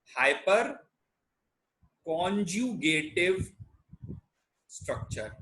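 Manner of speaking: spaced out word by word, with long pauses; measured, broken-up teacher's dictation; slow dictation. Shown as a demonstration. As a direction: dictate the term slowly for note-taking. Dictating the term for students.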